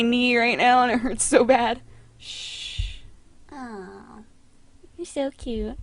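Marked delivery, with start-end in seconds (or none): 2.2-5.8 soft hush. Real, not acted. Hushing cat.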